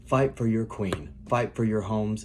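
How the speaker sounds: rally the troops with a shout. A narrator's reading. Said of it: "he shouted".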